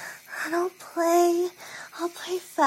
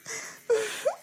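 high wordless whimper; puppy-like whimper; 7 semitones higher than usual. Pretend. Speaker playing puppy to partner, high whimper. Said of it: "groaning and whimpering like a puppy".

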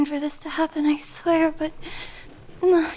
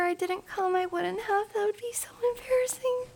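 flustered denial; 6 semitones higher, 5 dB quieter than usual. Acted.

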